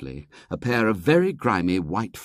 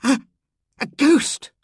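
frightened whisper; 6 dB louder than usual. A narrator's reading. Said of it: "whispered Henry with chattering teeth".

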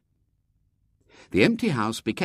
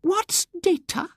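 put-on much higher, slow, puzzled old lady; mystified whisper; slower than usual. Miss Simpke asking her neighbour, mystified whisper. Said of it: "in a mystified whisper".

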